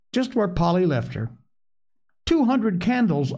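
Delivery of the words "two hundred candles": put-on high-pitched childlike marvelling; wonderstruck. A narrator's reading. Little girl marvels at imagined candles.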